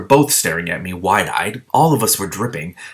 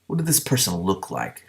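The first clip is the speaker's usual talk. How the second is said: unsympathetic; 5 dB quieter than usual. Acted. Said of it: "Shiar asked unsympathetically".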